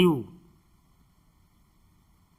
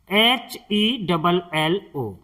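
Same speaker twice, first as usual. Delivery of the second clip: spelled out slowly; much slower than usual. Shown as a demonstration. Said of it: "इसे हम पढ़ते हैं".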